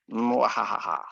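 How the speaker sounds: short mock evil cackle, falling; a quick hammed-up villain laugh; mad scientist laugh. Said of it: "Sound like a mad scientist".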